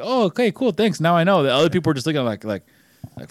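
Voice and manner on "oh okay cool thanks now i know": mock customer voice. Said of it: "They were like".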